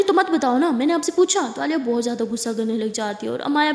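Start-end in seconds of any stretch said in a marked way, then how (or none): 0.0-1.5 higher, louder snap back; angry retort. Acted. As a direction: throw it back in her face. (غصے میں اونچی، بلند جوابی بات)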